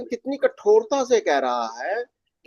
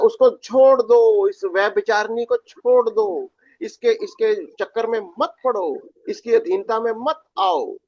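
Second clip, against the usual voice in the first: prophet's command. Retold or imitated. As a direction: thunder out the prophet's charge to leave her. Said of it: "कि कहता है". (भविष्यवक्ता की धीमी, ज़ोरदार चेतावनी)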